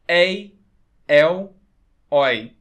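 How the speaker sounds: "Ei, el, oi" loud with open vowels, one at a time; "Ei, el, oi" as separate, emphatic open sounds; open diphthongs. Shown as a demonstration. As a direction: punch out each open diphthong in "Ei, el, oi", pausing between. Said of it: "Ditongos abertos".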